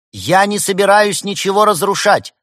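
high, loud declaration; even-toned announcement. A narrator's reading. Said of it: "ровным тоном объявил Губитель Вселенных".

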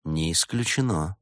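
slightly soft, mysterious reply; enigmatic. Acted. Detective hints at a frame-up, enigmatic. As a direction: leave it hanging, mysteriously. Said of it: "загадочно произнёс Улис".

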